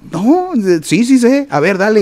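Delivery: high-pitched, eager retold claim; eager insistence. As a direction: act out insisting you can do it. Retells himself claiming he can play.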